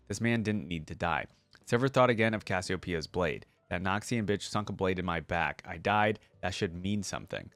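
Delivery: steady storyteller read of legend lore; story narration. Acted. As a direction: read it like an epic tale to viewers. Reading the short story aloud.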